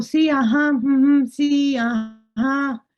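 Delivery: asentir sin hacer caso; dándole largas. Retold or imitated. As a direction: imita al esposo siguiendo la corriente. Esposo que le sigue la corriente. (ajá distraído, de quien no escucha)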